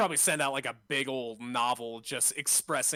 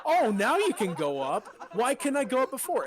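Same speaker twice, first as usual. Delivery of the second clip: laughing mock exclamation; 10 semitones higher, 6 dB louder than usual. Mocking the game's logic.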